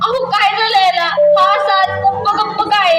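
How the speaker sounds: rising panic, pleading. Acted. Mother calling her still baby to wake up, panicked. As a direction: call the unresponsive baby, growing frantic.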